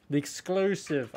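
a slow, lightly put-on fancy accent on "The exclusive"; slow mock fancy accent on "The exclusive". Real, not acted. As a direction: drawl "The exclusive" slowly in a mock posh accent, just for fun. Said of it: "I don't know why I put an accent on when I said that".

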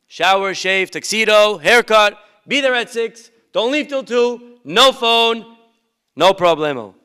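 put-on a keen boy ticking off every item, loud and high; eager son reciting list. Son eagerly repeating mother's list.

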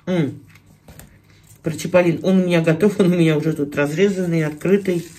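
talking around a bite; chewing while talking. Real, not acted. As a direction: mouth partly full of food. Seen 0: Fish bitten at -2.0; cheeks bulge, mouth working while talking.

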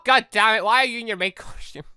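ordinary delivery

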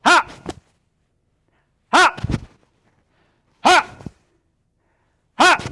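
short, high, explosive "ha"; punchy kihap shout on each strike; martial arts yell. Shown as a demonstration. Instructor cueing the class to switch punches, yelling. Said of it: "So when I yell".

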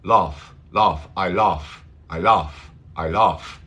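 English accent with back, rounded A in laugh; British-style "laugh", open back vowel. Shown as a demonstration. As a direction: say "laugh" as in parts of England. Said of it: "en algunas partes van a decir".

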